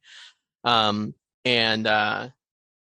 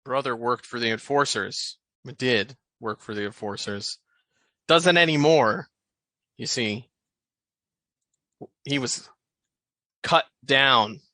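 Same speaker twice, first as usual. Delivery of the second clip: dim thug voice. Acted. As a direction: play him a bit dumb. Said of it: "He sounds stupid".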